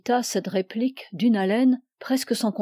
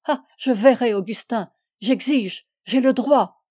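furious demands. Acted. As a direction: demand to see him, furious. (exiger, furieuse et haletante)

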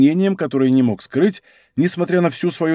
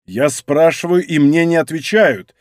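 mildly louder indignation; indignant; 3 dB louder than usual. Acted. Monk to silent soldiers, mild indignation. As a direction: demand an answer, understated outrage. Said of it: "возмутился Монк".

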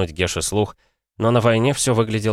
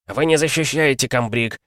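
curt retort; 6 semitones higher than usual. Acted. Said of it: "отрезал Червин".

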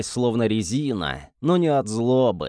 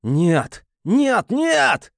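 rising, louder screams of no; desperate screams; 11 semitones higher, 4 dB louder, much slower than usual. Acted. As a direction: scream it higher each time. Hero screams as friend threatened.

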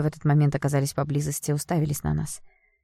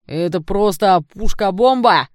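louder, slow thrilled cry; excited shout; 4 semitones higher, 7 dB louder, slower than usual. Acted. Curly guy filming shouts his delight, loud and thrilled. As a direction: yell it like you got the shot of the year. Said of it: "выкрикнул кудрявый парень".

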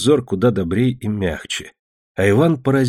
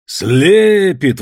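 exclaiming; 7 semitones higher, 5 dB louder than usual. A narrator's reading. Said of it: "воскликнул он".

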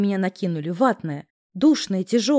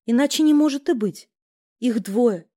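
ordinary delivery, nothing marked

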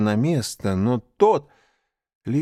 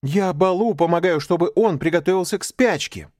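put-on higher, louder pleading boy; boy justifying himself; 8 semitones higher, 5 dB louder than usual. Mowgli excusing himself to Bagheera, high and pleading. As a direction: defend yourself like a child. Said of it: "начал оправдываться Маугли".

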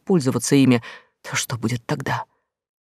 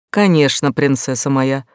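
ласково; 4 dB louder than usual. Acted. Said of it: "ласково отозвался тот".

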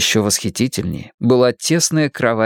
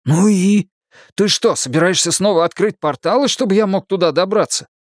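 higher, pushing angry demand; angry challenge; 10 semitones higher than usual. Acted. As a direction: demand an answer, irritated.

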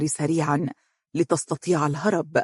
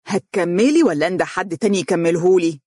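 determined. Acted. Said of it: "وقالت بتصميم".

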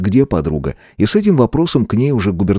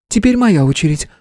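playful exclamation; 11 semitones higher than usual. Acted. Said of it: "воскликнула Стелла".

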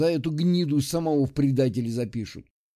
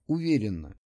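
ordinary delivery, nothing marked

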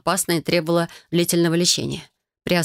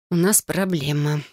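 мрачно; 2 semitones lower, slower than usual. Acted. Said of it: "мрачно выдала я".

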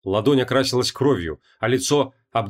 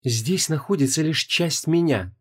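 slow, cold and higher goddess voice; 4 semitones higher, slower than usual. Acted. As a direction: answer icily, looking down on him. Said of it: "холодно ответила Инанна".

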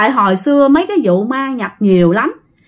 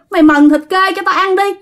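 water ghost demanding; 7 semitones higher than usual. Acted. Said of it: "Thủy ý là ma nước".

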